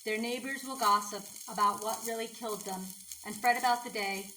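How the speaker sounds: measured recital with pauses between lines; poem reading. Acted. Poet reading their own mountain poem to viewers, measured recital. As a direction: read your poem aloud, evenly and deliberately.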